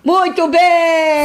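loud, high, slow drawn-out cheer; approving cheer. Real, not acted. Mother cheering her daughter's answer, loud, high and drawn out.

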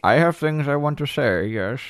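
playing along as an opinionated cat; playful cat voice.

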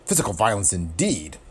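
dry mocking repeat of Physical violence, stress on Physical; sarcastic. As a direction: sneer out Physical violence indeed with a falling tune. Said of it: "sarcastic voice chimed in".

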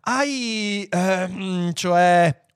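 high, halting question; nervous stammering. A narrator's reading. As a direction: fumble for the words nervously. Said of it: "gli si rivolse nervoso Lunk Walvl". (esitante e nervoso, voce acuta)

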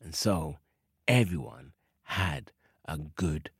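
closing the story, fading to a whisper; fading ending. A narrator's reading.

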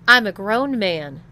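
loud indignant insistence; angry. Acted. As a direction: push back hard.

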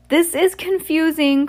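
high, slow, far-off voice; voiced as a flustered islander; character voice. A narrator's reading. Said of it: "cried Amaros".

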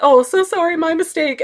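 high, hurried embarrassed sorry; flustered shy apology. Pretend. Shy girl apologizing to a stranger, high and flustered. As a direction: squeak it out wanting to vanish. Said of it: "I am so shy and awkward".

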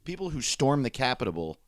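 "Capitol" garbled as "Capitable"; tongue slip. Real, not acted. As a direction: stumble on "Capitol" with a stray b near the end. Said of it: "I did it again".

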